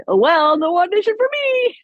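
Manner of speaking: wry resignation. Retold or imitated. Retold quip during earthquake.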